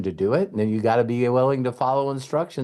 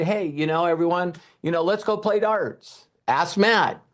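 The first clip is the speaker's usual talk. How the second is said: mock innocent invite; 5 semitones higher than usual. Innocent invite to play darts.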